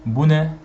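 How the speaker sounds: Bu ne? asked with a rising question lift; question tune. Shown as a demonstration. Teacher asking learners, Bu ne? as a clear question. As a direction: ask Bu ne? with the pitch up on ne. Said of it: "you say like this".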